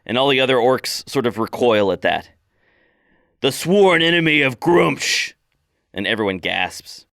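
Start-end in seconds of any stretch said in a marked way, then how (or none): 3.4-5.3 slow, higher, ominous warning; grim orc priestess. Acted. Orc priestess warns the clan, slow and grave. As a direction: lay the name down like a curse. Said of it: "she glares at everyone".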